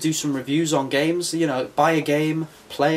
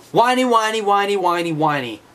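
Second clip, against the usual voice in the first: higher sing-song teasing, fading at the end; mocking taunt; 6 semitones higher, 4 dB louder than usual. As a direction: tease them like a kid in the playground. Taunts complaining viewers.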